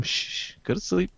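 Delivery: soft hushing whisper; whispering over a crib. Pretend. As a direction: shush it to sleep like a baby. Hushing a bomb like baby.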